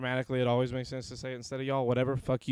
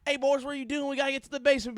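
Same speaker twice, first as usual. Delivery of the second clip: much higher, louder country Southern voice; Southern accent; 12 semitones higher, 3 dB louder, faster than usual. Retold or imitated. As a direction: friend Mac in a broad Southern accent. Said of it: "my easiest accent".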